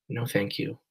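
soft, defeated refusal; quiet. A narrator's reading. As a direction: barely say it, beaten. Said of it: "Mom says quietly".

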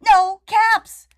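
high and loud, exasperated; loud no caps. Acted. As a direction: burst out with it, fed up. Peddler finds no caps.

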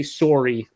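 "sorry" with a hard O; Canadian "sorry". Shown as a demonstration. Quoting how Canadians say it, "sorry" with hard O. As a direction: say "sorry" as "SORE-ee". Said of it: "I've heard them say sorry".

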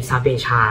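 "ซาเบชา" with a "ch" sound in the last syllable; "ch" pronunciation. Shown as a demonstration. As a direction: say "ซาเบชา" ending in a Spanish-style "cha". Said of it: "สุดท้ายก็ออกเป็นชอช้างเหมือน".

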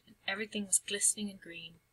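quick hushed whisper. A narrator's reading. Narrator whispers the calm scene.

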